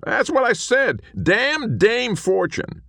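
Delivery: high, loud indignant cowboy; bristle, high and loud; offended little ghost. A narrator's reading. Small man insists.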